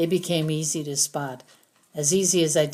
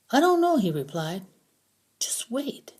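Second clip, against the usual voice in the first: accusing prisoner; 7 semitones higher than usual. A narrator's reading. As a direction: drag out the accusation. Prisoner answers.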